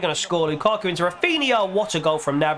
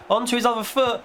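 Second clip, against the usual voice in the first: rising much higher into a stretched goal call; excited goal call; 10 semitones higher, slower than usual. Real, not acted. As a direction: sell the goal like live commentary, voice straining upward. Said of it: "I'm trying to be excited".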